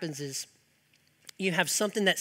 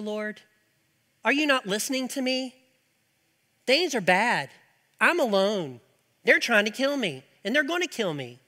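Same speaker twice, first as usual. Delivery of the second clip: whiny complaint; 3 semitones higher than usual. Acted. Elijah complaining to God.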